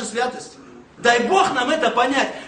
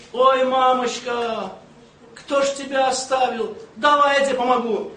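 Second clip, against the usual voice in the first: creaky voice. Retold or imitated. Rough countryman offering an old lady help, in a mock creaky voice. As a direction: lightly imitate a creaky-voiced man drawing out the first words. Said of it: "слышу этот скрипучий голос".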